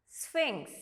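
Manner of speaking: "sphinx" with PH sounded as F; model pronunciation. Shown as a demonstration. Teacher reading the third word, careful model pronunciation. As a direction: say "sphinx" as SFINKS, on its own. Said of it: "you read this word as".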